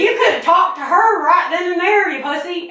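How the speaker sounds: Southern accent. Shown as a demonstration. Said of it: "It'd be like".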